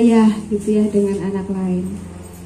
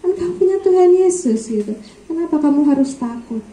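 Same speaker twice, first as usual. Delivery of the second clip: father's catchphrase; 6 semitones higher than usual. Retold or imitated. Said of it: "kata-kata andalan Bapak saya".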